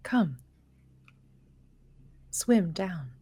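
creepy whisper. Acted. Creature lures her.

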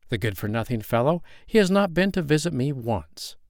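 mother duck, mildly voiced and fed up; complaining mother duck. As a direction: grumble about the lazy father.

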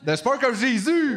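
slow, high, loud title announcement; movie trailer voice. Pretend. Titre de film proclamé. (voix de bande-annonce)

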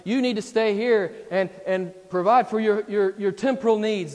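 loud, high, insistent tempter; Satan's lies. Acted. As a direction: push the temptation hard, preacher-style. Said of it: "telling him all these lies".

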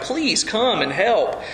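slow, drawn-out pleading; acted heartfelt plea. Desperate father asks Jesus for help, acted heartfelt plea. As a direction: pour it out slowly, lightly acted. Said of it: "this man pours out his heart".

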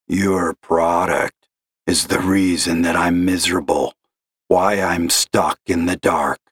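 a despairing caller's gravelly drone; gloomy gravelly caller. Acted. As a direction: sigh it out like a lost man. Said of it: "gravelly voice like that".

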